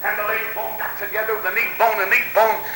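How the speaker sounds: revival sermon in rhythmic bursts; impassioned church preacher; fervent preaching. Real, not acted. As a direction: preach it with swooping cries on key words. Preaches to congregation.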